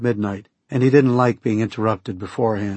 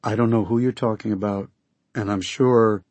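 soothing voice. Acted. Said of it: "I spoke in my most soothing voice".

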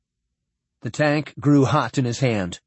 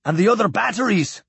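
high-pitched note of wonder; 7 semitones higher, faster than usual. A narrator's reading. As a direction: voice lifts in mild amazement. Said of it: "Sinclair said in wonder".

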